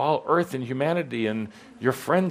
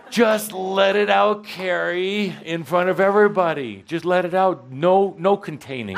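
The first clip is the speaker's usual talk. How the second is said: louder and higher, urging her on; rousing call; 7 semitones higher, 3 dB louder than usual. Real, not acted. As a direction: fire her up to let it all out. Coach urging her to scream.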